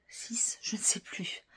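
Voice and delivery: a soft whisper to herself, unsure; whispered aside. Real, not acted. To herself while trying to recall the date, whispering. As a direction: hush it out like a private doubt.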